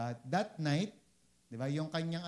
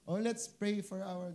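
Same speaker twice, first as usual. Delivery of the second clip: mock prayer tone; 4 semitones higher than usual. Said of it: "Ganun yung tono niya".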